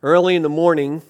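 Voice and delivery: measured, solemn Bible reading; scripture reading. Acted. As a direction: read the Gospel passage gravely to the congregation. Reads scripture aloud.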